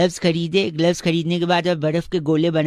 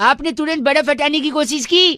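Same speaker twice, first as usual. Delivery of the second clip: raised pitch, rising at the end; insistent repeat; 7 semitones higher than usual. Real, not acted. Prank caller repeats his story over protests, insistent and high. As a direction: press on over the interruption.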